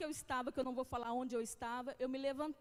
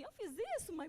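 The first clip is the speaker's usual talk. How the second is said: little daughter; 5 semitones higher, faster than usual. Retold or imitated. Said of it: "ela fica assim".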